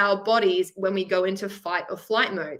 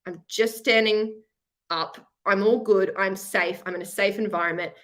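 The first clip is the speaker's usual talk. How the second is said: calm self-talk. Shown as a demonstration. Teacher models calm self-talk for nervous students. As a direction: talk yourself down gently. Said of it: "I want you to think about".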